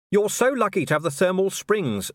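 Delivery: a dry, understated copper's retort; dry Vimes. A narrator's reading. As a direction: answer flatly, making a point. Vimes voiced in dialogue.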